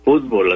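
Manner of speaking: fútbol said like English FOOT-ball; fútbol with English sound, stress first; English football. Shown as a demonstration. Telling Leo how the English say it, fútbol like football. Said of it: "ahí se pronuncia fútbol".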